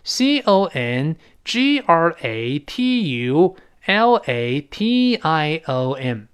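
letter by letter, very slow; drawn-out letters, one at a time; spelling out slowly. Shown as a demonstration. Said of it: "再来一遍".

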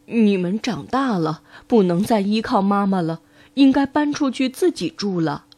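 lightly voiced mother, starting low; mother pig. Mother pig sending piglets off, lightly voiced, low start. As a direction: tell the children as their mother. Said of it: "猪妈妈对小猪们说".

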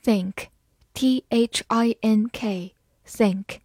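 very slow letter-by-letter spelling; slow spelled-out word. Shown as a demonstration. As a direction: spell it out slowly for learners. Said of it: "T H发咬舌音".

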